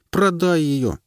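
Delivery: высоко и громче, настойчиво; потребовать по-беличьи; голос белки. A narrator's reading. Белка настаивает. (настойчивая белка)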